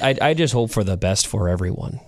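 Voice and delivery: put-on modest, halting answer in a Canadian accent; humble Canadian accent. Humble hockey player answering a question, Canadian accent. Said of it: "I love the Canadian accent".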